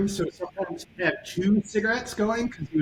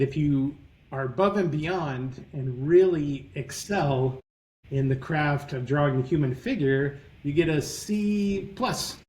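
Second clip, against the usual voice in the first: put-on New York accent. Professor explaining his grading to new students, in a mock New York accent. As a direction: loosely imitate the tough New York grader, deadpan. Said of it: "I'm gonna do his accent".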